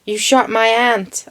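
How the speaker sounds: put-on half-hearted American accent, "aunt" said like "ant"; unconvincing imitation of an American saying "aunt"; attempted American accent. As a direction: try an American "aunt" with a short flat a. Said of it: "I can't do an American accent".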